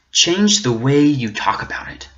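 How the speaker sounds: breathy whisper, then repeat it aloud. Acted. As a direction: hush it like a secret challenge. Challenge repeated, first whispered.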